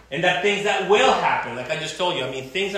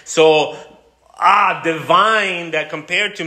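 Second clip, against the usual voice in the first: awe; 3 semitones higher, 6 dB louder, slower than usual. Acted. Awestruck at God's glory.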